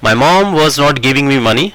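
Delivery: very slow, word by word; slow dictation. Shown as a demonstration. Teacher dictating the final sentence to students, very slow. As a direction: give the final sentence slowly. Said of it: "ऐसे बना लीजिए".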